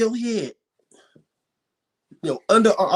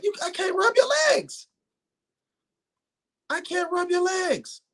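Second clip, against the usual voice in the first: hammed-up disgust; 12 semitones higher than usual. Exaggerated disgust rant.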